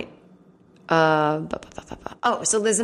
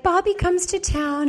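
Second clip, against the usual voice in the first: excited gush; 12 semitones higher than usual. Retold or imitated. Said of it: "She's like".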